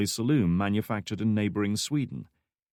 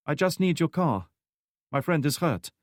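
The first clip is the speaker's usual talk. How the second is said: lightly voiced woman; 7 semitones higher than usual. Anya speaks to the driver.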